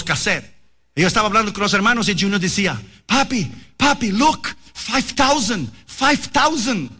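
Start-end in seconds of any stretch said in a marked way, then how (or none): 3.0-6.9 put-on higher, slow, eager kid voice tugging at his father; a little boy pleading to be heard; excited child voice. Son tugging at his preoccupied father, in an excited higher kid voice.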